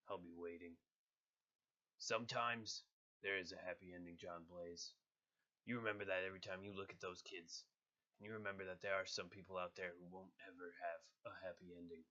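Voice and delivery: a little raspiness, grim; cold vigilante log entry; raspy Punisher. Acted. Voice actor doing the Punisher, lightly rasped. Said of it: "add a little bit of raspiness".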